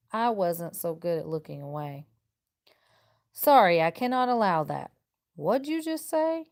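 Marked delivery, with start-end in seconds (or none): 3.3-4.9 louder, firm "sorry"; firm refusal. Acted. Lincoln refusing the slavery side. 5.3-6.5 high, shifted voice of a challenger; incredulous challenger. Acted. Opponent challenges Lincoln.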